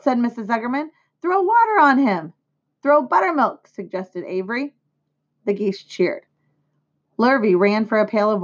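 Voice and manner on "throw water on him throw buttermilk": high-pitched urgent suggestion; urgent calling. A narrator's reading. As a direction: call out for help, storybook style. Urgent calls to revive pig.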